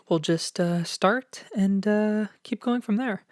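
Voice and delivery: talking slightly winded; short of breath while talking. Real, not acted. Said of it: "I don't know why I'm out of breath".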